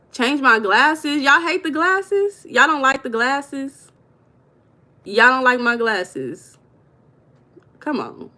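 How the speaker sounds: high, drawn-out incredulous questioning; playful disbelief. Real, not acted. Streamer answering viewers who hate the glasses, in drawn-out disbelief. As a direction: stretch it out high, taken aback by the complaint.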